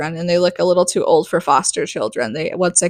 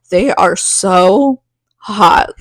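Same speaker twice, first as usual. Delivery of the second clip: slow, drawn-out swoon over the hot guys; lightly hammed-up lovestruck sigh; mock swooning; 3 dB louder, much slower than usual. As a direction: stretch it out like a dazzled teen. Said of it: "So she's like".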